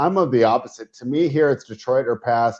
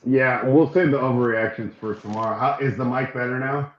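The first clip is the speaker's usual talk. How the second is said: distant, off-mic sound; far from mic. Real, not acted. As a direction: voice from across the room. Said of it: "It sounds like you're, like, across the room".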